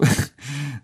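brief, quiet chuckle; amused little laugh; short chuckle. Real, not acted. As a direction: chuckle softly to yourself. Amused at friend's clumsy rapping.

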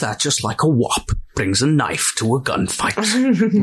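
slow mock-Connery delivery; film line impression. Quoting favourite Connery line to co-hosts, slow impression. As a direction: draw it out like the actor.

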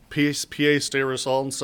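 slow, clumsy French phrase; mangled French. Real, not acted. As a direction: stumble through the French phrase. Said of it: "Joel is frowning at me".

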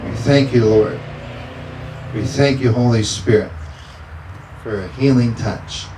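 preacher praying with fervor; fervent prayer. Acted. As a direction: pray it out with conviction. Pastor praying over congregation.

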